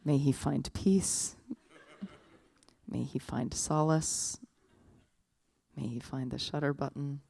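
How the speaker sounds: mock-serene blessing. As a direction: intone it like a patient prayer. Statue blesses drunk friend with camera.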